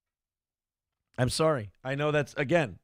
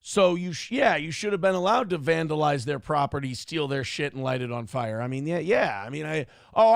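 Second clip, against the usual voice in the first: sarcastic; 2 semitones lower than usual. Retold or imitated. Mock apology to the protester.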